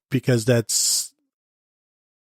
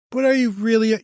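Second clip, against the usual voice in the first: much higher, disbelieving question; incredulous reporter; 9 semitones higher than usual. Retold or imitated. Host mimics a reporter pressing Harbaugh, pitched way up in disbelief. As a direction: squeak out the doubt like a pushy reporter.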